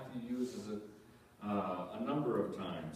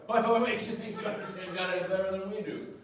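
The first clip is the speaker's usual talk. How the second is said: higher and louder, laughing through it; laughing mock challenge; 8 semitones higher, 7 dB louder than usual. Preacher mocking rival churches, laughing and louder.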